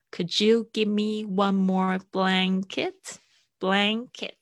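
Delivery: slow, linking could and you; slow linked demo. Shown as a demonstration. Teacher modelling a phrase slowly for students. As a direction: model it slowly, words joined. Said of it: "could跟you可以连起来".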